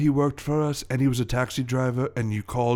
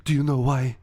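put-on French-accented pointed question; theatrical French accusation. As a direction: press them as an aggrieved French villain. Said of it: "my French accent".

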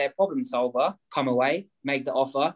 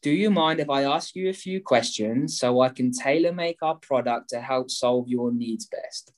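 polite. Shown as a demonstration. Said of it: "say politely".

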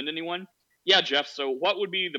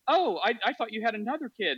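imitating neighbor; 7 semitones higher than usual. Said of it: "She's like".

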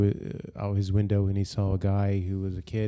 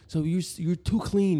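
higher, lightly acted royal voice; mock fussy prince; 7 semitones higher than usual. Podcaster acting a prince rejecting women brought to him, lightly mocked. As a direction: play a prince turning someone down.

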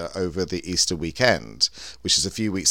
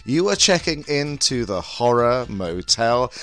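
sultry campy hostess voice; breathy vintage purr; 4 semitones higher, slower than usual. Acted. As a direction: purr it like a vintage glamour host. Bunny Galore hostess persona.

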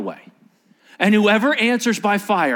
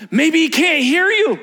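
mocking jibe; 10 semitones higher, 5 dB louder than usual. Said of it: "Elijah throws out".

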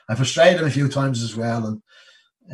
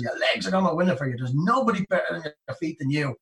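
losing it; 4 semitones higher than usual. Retold or imitated. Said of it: "the only time he lost it".

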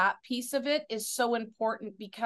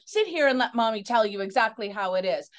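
tender mom; 3 semitones lower, faster than usual. Pretend. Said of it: "they could have dealt with it in a way that".

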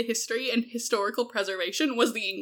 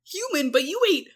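incredulous scolding; 3 semitones higher than usual. Retold or imitated. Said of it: "And I'm like".

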